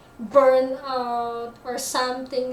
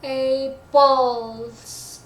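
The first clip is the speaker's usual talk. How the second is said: APPLES with its second syllable stretched and louder; long second syllable; 5 dB louder than usual. Shown as a demonstration. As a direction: lean on the end of APPLES. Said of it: "like that".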